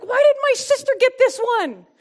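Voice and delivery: high, loud, exasperated complaining; whiny self-pity. Retold or imitated. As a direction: gripe like a jealous little sister. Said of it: "I'm like".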